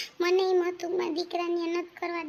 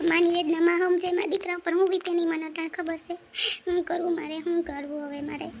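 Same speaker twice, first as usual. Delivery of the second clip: tearful lament. Acted. Mother breaking down over her son's broken engagement, tearful lament. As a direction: lament as a helpless, weeping mother. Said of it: "mummy, કેમ રડે તું?".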